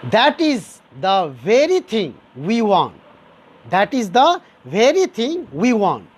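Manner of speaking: deliberate emphasis on "very thing"; stress on VERY. Shown as a demonstration. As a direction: lean on "very" to point at "thing". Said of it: "the word very is emphasizing".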